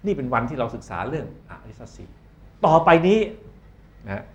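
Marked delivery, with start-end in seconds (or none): 2.7-3.2 loud, higher call for attention; announcing to a hall of students. Real, not acted. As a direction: call the room to order. Teacher calls class to attention.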